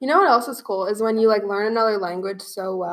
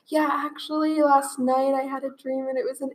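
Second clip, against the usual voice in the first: higher-pitched imitation of an excited student; retold excitement; 4 semitones higher than usual. Exchange student telling her teacher about a dream, retold excitement.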